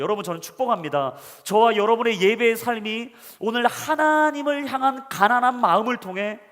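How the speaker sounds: loud, high preaching build; preaching at full force. Acted. Pastor preaching to the congregation, at full force. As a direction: proclaim it to the congregation with fire.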